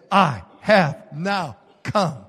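slow and low, held back. Acted. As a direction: say it gravely, almost inward. Quiet retake of commander's words.

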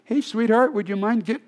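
mock-sweet plea to a child; gentle voice. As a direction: parent coaxing a child from the street, mock gentle. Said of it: "you don't do the gentle voice".

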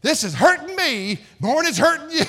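high, loud mother's voice mid-spanking; imitating mom. Pastor imitating his crying mother while she switches him, high and loud. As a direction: squeal it like a mom who hurts too. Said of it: "And she'd say".

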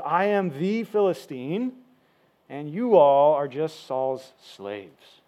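slow, deliberate mild scorn; scornful. Retold or imitated. Goliath belittling Saul's army, mildly scornful. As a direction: draw it out with a touch of contempt. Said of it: "notice how scornful he is".

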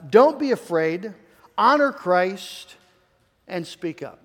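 each command spaced and slowed; first slow reading of the three points; slow deliberate list. Shown as a demonstration. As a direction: lay out don't be afraid, honor Christ, speak up one by one. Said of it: "sets out three commands".

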